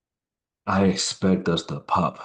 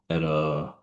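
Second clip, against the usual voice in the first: yawning. Real, not acted. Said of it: "excuse me, I'm yawning a lot".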